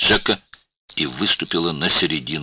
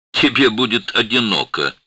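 smirking; 8 semitones higher, 5 dB louder than usual. A narrator's reading. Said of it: "усмехнулся Чет".

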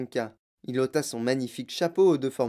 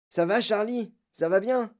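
higher, lightly voiced anxious questions; concerned grandfather; 8 semitones higher than usual. Grandfather asks the boy clinging to his leg, concerned. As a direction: check gently on the child.

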